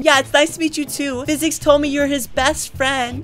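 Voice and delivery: man doing a woman's voice. Acted. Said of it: "to show him my girl voice".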